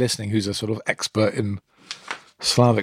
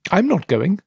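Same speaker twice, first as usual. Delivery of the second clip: higher, louder bratty refusal; a spoiled sister snapping back; sulky stepdaughter; 8 semitones higher, 3 dB louder than usual. Acted. Stepdaughter's retort in story.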